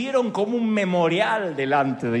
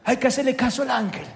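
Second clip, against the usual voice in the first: high, loud Italian calling his men; 6 semitones higher, 4 dB louder than usual. Pretend. Cornelio summoning his men, Italian accent. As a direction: bark out names like an Italian boss. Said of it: "el italiano este dijo".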